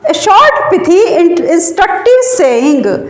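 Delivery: slow, word by word for note-taking; slow dictation. Shown as a demonstration. Teacher dictating a definition to students, slowly and deliberately.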